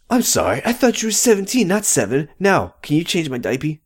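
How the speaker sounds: high, quick mocking voice; mock baby parody. Parodying Leo's apology, high quick mock whine. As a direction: tease him with a babyish whine.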